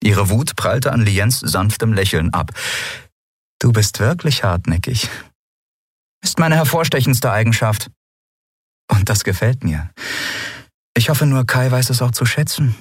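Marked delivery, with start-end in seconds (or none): 3.6-12.8 put-on lightly higher young woman; Lien's voice. A narrator's reading. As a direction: read Lien gently remembering. Lien voiced in story.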